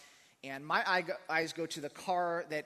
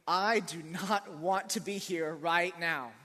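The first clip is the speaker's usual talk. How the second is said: slow, louder, every word dragged out; drawn-out fed-up sigh; 6 dB louder, much slower than usual. Retold or imitated. Stuck alone in a police lobby, slow and exasperated. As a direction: stretch it like you're fed up waiting.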